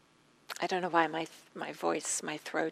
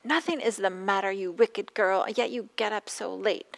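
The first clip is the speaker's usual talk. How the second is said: angry; 6 dB louder than usual. Retold or imitated. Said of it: "And angry and upset".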